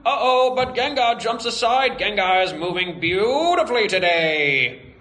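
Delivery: excited vintage sportscaster voice; 1940s announcer. Acted. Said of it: "do the announcer as nineteen forties announcer guy".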